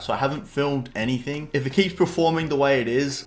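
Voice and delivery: drowsy, just woken up; nodding off. Real, not acted. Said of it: "So I am half awake right now".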